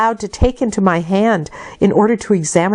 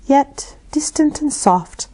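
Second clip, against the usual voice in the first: whispered; 8 semitones higher than usual. A narrator's reading. Ballad lines turning soft.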